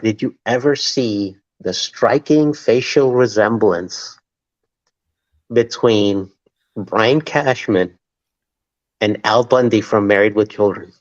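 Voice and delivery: slow, low sarcastic setup with long pauses; deadpan sarcasm. Retold or imitated. Host retelling his radio jab at Cashman, deadpan sarcasm. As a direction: pose it slowly as a mock-serious question. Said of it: "before I say the sarcasm alert".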